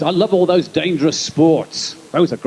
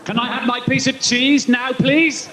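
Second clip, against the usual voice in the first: higher, pleading little mouse asking for cheese; squeaky begging mouse voice; 6 semitones higher than usual. Acted. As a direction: beg sweetly like a lab mouse. Comic voicing a begging mouse.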